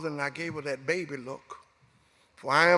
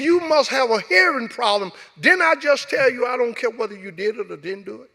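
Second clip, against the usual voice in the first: louder, higher, contemptuous taunt; a cop taunting his suspect, harsh and loud; sneering detective; 5 semitones higher, 5 dB louder than usual. Retold or imitated. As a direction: jeer at the prisoner. Detective mocking, raising voice.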